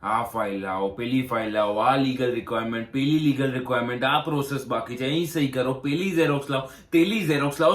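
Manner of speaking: rattling off demands in a steadily rising run; mimicking officials' demands. Applicant mimicking the bank's endless paperwork demands, mocking build-up.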